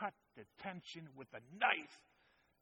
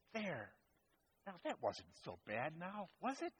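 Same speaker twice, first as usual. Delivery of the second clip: playful; 7 dB quieter than usual. Acted. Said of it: "playfully, as if he's saying".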